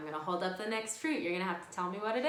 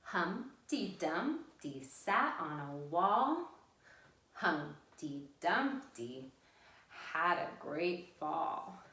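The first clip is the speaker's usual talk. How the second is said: slow, measured singsong verse; lilting rhyme, syllables spaced out; nursery rhyme recital; slower than usual. Real, not acted. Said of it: "say it along with me".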